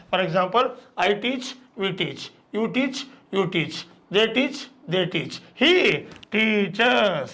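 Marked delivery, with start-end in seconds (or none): 5.6-7.3 drawn-out model. Shown as a demonstration. Teacher models the added ES ending.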